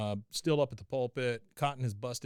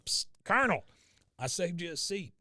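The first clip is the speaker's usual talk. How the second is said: a high, hushed psst to the Colonel; lightly voiced Dale, leaning in with a psst; Dale whisper voice; 6 semitones higher than usual. Dale hissing to Cotton in church, high and hushed. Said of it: "Dale ... going".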